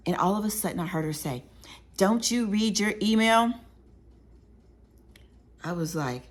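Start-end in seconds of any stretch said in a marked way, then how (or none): 2.0-3.5 imitating a scolding boss, slow and higher; mock-angry demand, drawn out; mad supervisor. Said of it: "and she's mad at me".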